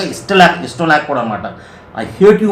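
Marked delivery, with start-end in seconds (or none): 2.0-2.5 high, loud angry outburst; angry child. Acted. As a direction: snap it at mom like a furious kid. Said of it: "Angrily with a red face".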